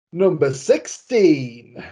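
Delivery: slow drawn-out bingo call; bingo caller. Shown as a demonstration. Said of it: "shall I do it in a bingo voice".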